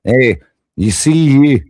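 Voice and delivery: slow attempted Irish that drifts Scottish; badly faked Irish accent, dragged out. Shown as a demonstration. Streamer showing off accents, shaky attempt at Irish accent. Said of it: "do it in a fucking Irish".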